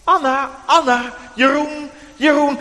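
put-on loud high call of the sleeping child's name; mysterious voice calling a sleeping child awake. A narrator's reading. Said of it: "dan is er weer die stem".

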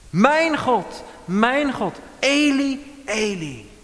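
loud, high, anguished calling out; emphatic cry. Retold or imitated. Preacher voicing Jesus on the cross, loud anguished cry. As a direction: cry out the name with longing. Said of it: "Dat is met nadruk".

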